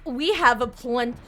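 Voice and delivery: slow, lightly voiced English character; a hint of a stuffy Englishman, drawn out; England voice. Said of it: "England was like".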